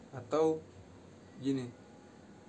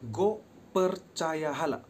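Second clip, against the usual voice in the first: scornful demo; 3 semitones higher, 5 dB louder, slower than usual. Shown as a demonstration. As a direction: fling the blasphemy, drawn out. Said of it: "I repeat again".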